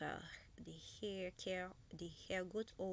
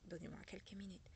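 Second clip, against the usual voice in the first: whisper; 9 dB quieter, much faster than usual. Real, not acted. Aside while searching.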